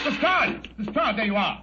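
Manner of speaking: relieved cry on seeing Lestrade; calling out. Acted. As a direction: call across the room to the rescuers. Calling out to rescuers.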